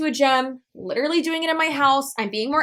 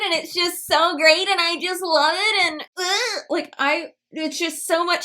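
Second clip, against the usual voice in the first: mock bubbly sales pitch; 5 semitones higher than usual. Mocking the MLM seller going back to her pitch, gushing. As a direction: gush like she's selling it to you, hammed-up. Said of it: "She just goes right back to selling it".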